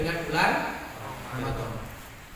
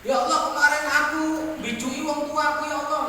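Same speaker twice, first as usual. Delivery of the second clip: mock tearful prayer; 4 semitones higher than usual.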